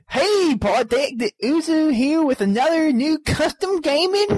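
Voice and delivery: put-on hillbilly accent. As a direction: read it as a hillbilly. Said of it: "I'll do the hillbilly accent".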